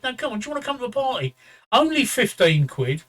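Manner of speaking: a hammed-up Welsh sales pitch, not a good accent; attempted Welsh accent. Teller imitates a Welsh woman pressing him, rough Welsh accent. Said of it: "I can't do a Welsh accent".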